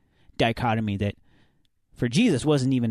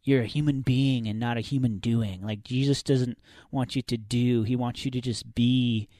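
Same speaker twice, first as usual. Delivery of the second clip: hippie Christian voice. Pretend. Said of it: "Is that your hippie Christian voice?".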